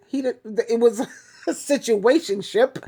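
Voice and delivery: words broken by a real giggle; giggling through words. Real, not acted. Vlogger mocking her ex's relationship, giggling. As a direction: giggle mid-sentence. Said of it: "I'm giggling right now".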